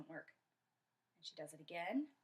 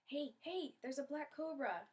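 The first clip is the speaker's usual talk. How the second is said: higher, urgent alert; urgent warning; 6 semitones higher than usual. Acted. Kondoma signals her friend about the cobra, urgent warning. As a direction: get a friend's attention fast.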